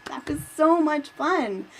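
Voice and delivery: host whispering her delight. Real, not acted. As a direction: breathe it out delighted.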